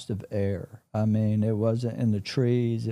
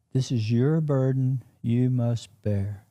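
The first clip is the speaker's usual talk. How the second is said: slow, weighty delivery of each phrase; measured solemn pronouncement; slower than usual. Retold or imitated. Glowing woman telling the witness of a burden, solemn and slow. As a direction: pronounce it slowly, as a charge laid on someone. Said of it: "That's how she said it".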